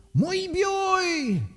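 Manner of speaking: gällt, högt barnrop; ropar. A narrator's reading. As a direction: ropa efter morbror med ljus barnröst. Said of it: "Han ropade på morbror". (högljutt rop i falsett)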